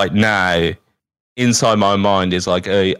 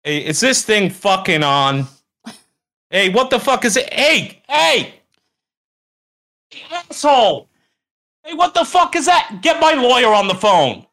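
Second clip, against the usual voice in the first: Hollywood Druid; 13 semitones higher than usual. Acted. Asshole star demanding his lawyer on the phone, high ranting. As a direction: rant like an obnoxious Hollywood diva. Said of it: "Hollywood Druid out".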